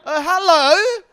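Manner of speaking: high, loud barked hello; commanding mum shout. Retold or imitated. Mimicking the mum scolding the teen, high loud command. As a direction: bark it like an order. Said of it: "I just wanted to be like".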